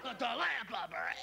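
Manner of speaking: put-on high, drawn-out child's yell; little kid. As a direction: holler it slowly like a whining kid. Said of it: "The little kid there holding a blanket".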